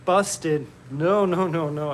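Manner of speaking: high, loud mock panic; playful panic. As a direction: act caught red-handed. Caught out by chat.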